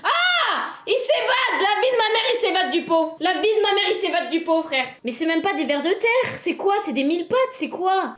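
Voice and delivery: loud, high panicked cries; alarmed shouting. Real, not acted. Streamer yells in panic as the worm escapes the pot.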